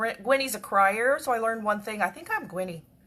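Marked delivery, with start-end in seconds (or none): none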